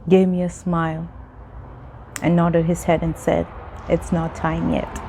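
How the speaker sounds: measured teacup's tale, phrase by phrase; parable narration. Acted. Continues parable, master answers teacup.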